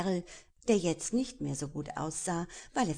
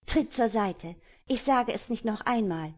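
stern warning; 5 semitones higher, 6 dB louder than usual. Acted. Destiny confronts the pirate.

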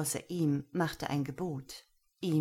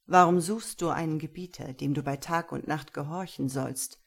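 louder stern questioning; stern master; 4 dB louder than usual. Acted. Gero questions Lena, stern. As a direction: probe her, commanding.

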